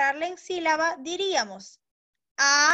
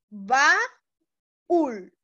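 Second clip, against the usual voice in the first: ba-ú-l said slowly, syllable by syllable; slow syllable-by-syllable teacher demo; split into syllables; 5 dB louder than usual. Shown as a demonstration. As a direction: spell out "baúl" slowly, pausing between syllables. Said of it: "cuando yo la voy a separar en sílaba".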